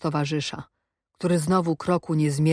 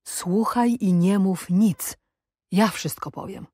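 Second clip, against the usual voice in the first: mock shout. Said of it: "a on krzyczy".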